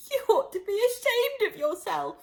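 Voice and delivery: high, sharp self-scolding; scolding herself. A narrator's reading. Alice scolding herself in a stern voice. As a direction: tell yourself off like a stern governess. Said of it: "said Alice".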